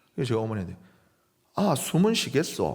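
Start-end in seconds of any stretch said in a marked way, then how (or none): 1.6-2.8 Gyeongsang regional dialect. Retelling own question to mother about a swaddled baby: gyeongsang dialect. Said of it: "서울말의 경상도 사투리 버전이었어요".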